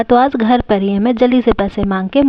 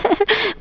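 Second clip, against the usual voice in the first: high amused giggle; short giggle to herself; 9 semitones higher, 7 dB quieter than usual. Acted. Mother chuckling over funny videos, giggling.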